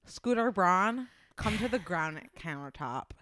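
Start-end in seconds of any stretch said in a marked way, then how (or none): 1.4-3.1 "granite" said with a thick Midwestern vowel, close to "grownd-it"; thick Midwestern "granite countertop"; Midwestern accent. Real, not acted. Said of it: "my Midwestern accent is thick".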